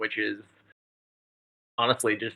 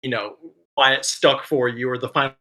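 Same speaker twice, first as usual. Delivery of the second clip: talking through hiccups; hiccuping between words. Real, not acted. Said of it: "I got these hiccups".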